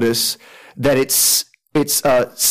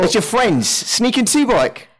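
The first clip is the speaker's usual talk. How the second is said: high-pitched visitor announcing himself; high, hailing character voice; calling through a door; 10 semitones higher than usual. Acted. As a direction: sing out who's at the door, voice way up.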